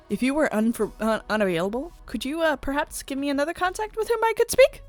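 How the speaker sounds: halting start, climbing to a high question; stumble, then lift into a hopeful plea; tentative polite request. Acted. Character asking for another contact, tentative and rising.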